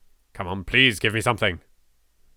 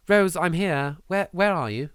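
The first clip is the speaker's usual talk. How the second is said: calling out; 8 semitones higher than usual. Acted. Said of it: "I call out".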